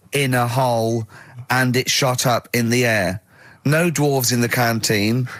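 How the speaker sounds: slow, measured reading aloud; deadpan text reading. Retold or imitated. Host reads out Carl's holiday text, slow deadpan. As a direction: read it out slowly, line by line.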